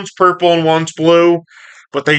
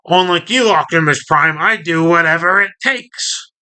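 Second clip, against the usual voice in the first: higher, lightly voiced villain retort; Starscream; 4 semitones higher than usual. Starscream answering Optimus Prime, lightly acted defiance. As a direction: rise higher in mock defiance. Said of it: "doing his Starscream thing".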